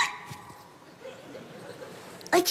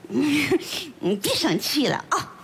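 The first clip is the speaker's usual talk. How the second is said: coaxing; 5 semitones lower, much slower than usual. Acted. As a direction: coax him out of his sulk, slowly. Wife coaxing husband.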